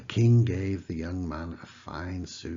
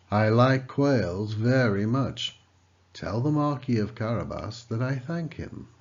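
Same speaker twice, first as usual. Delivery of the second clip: delighted; 4 semitones higher, 6 dB louder than usual. A narrator's reading.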